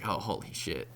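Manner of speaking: low, soft, stunned; quiet dazed mutter. Retold or imitated. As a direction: say it under your breath, dazed. Realizing the drugs kicked in.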